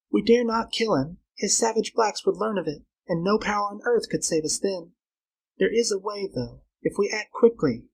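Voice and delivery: high, earnest female voice; scheming Flora. Acted. Girl plotting against Tarzan with Carl, urgent.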